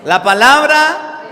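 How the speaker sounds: rally the congregation with the call; preaching at full force. Acted. Predica a toda voz. (predicación enérgica y fuerte)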